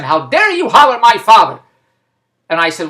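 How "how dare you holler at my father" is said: louder, higher mock outrage; retold angry scream. Daughter telling off the agency over her father, mock-outraged. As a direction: imitate a daughter's indignant telling-off. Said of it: "I screamed at them".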